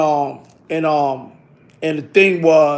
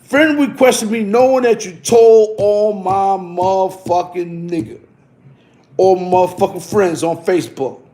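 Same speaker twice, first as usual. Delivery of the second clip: drawn-out mock outrage. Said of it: "I said".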